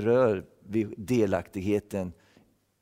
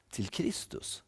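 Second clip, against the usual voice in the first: whispered; 11 dB quieter, slower than usual. Real, not acted. Sermon climax, dropped voice.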